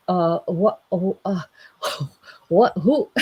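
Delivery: halting, bewildered stammer; confused. Acted. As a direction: fumble for words in mock bafflement. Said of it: "And he is confused".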